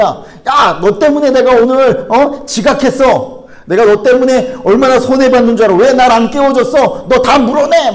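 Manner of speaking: loud, high-pitched demanding outburst; shouted accusation, pushing for compensation; unreasonable angry stranger. Acted. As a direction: play an irate customer blaming someone. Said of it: "막 여러분에게 억지를 쓰시는 거예요".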